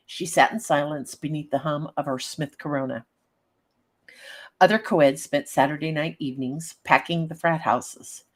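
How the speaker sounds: steady storyteller read; story narration. A narrator's reading. Reads story aloud.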